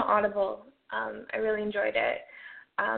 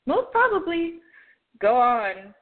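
higher, wry "most probably"; sarcastic aside; 3 semitones higher than usual. Acted. Jinx mocking the kidnapper's letter, higher sarcastic quip. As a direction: toss it off with cheeky sarcasm.

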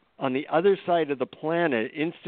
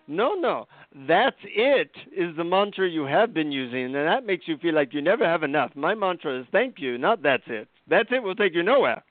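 guru voice; 5 semitones higher than usual. Retold or imitated. Guru lecturing the visitor.

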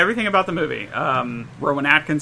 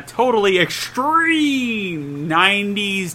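put-on extreme hyped kids ad; 3 semitones higher, much slower than usual. Slow hyped show intro.

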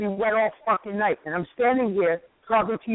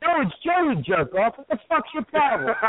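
irritated correction. Acted. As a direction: snap back at being misnamed. Angry caller corrects his name.

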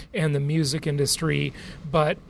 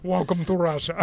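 put-on Russian accent. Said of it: "Every five minutes".

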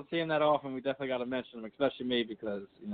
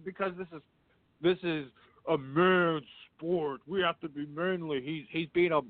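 mocking macho fans. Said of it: "MMA fans are just terrible".

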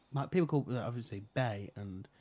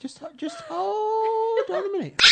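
incredulous; 13 semitones higher, 4 dB louder than usual. Real, not acted. Co-host halting the boyfriend story, incredulous. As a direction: call a halt, voice shooting up. Mock-outraged halt after the slip.

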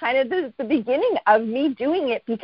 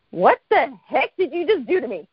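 higher, emphatic disbelief; retold astonishment; 4 semitones higher than usual. Friend confronting her after the session, astonished retelling. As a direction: demand to know what was just done.

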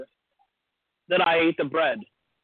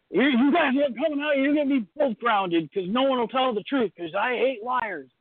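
higher-pitched mock scolding; imitated scolding mom; 5 semitones higher than usual. Mom grounding both kids over the bread, mock scolding. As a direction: act out a mom laying down the law. Mother scolding children in a story.

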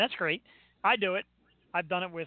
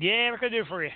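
ignorant and offhand; 4 semitones higher, 4 dB louder than usual. Retold or imitated. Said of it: "Just like that, like, ignorant as can be".

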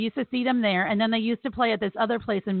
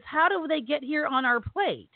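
put-on child's slow question; 6 semitones higher than usual. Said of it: "He goes".

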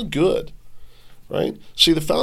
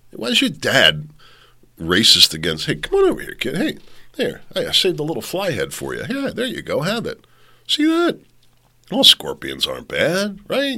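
a lightly voiced scorpion, high and wheedling; coaxing scorpion; 5 semitones higher than usual. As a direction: sweet-talk the frog's child. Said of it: "Try to convince your children".

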